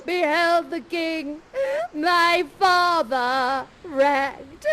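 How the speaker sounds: hammed-up slow lament; mock crying. Ferdinand mourning his father, hammed-up weeping. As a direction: wail it like a melodramatic prince. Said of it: "And then he starts to cry".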